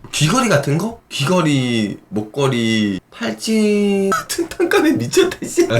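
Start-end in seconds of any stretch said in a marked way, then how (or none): 4.3-5.7 laughing disbelief. Real, not acted. Laughing at viewer's comment.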